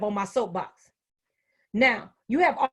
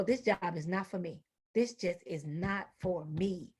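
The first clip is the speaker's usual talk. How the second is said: fed-up mutter; 6 semitones lower, 10 dB quieter than usual. Retold or imitated. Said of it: "you go".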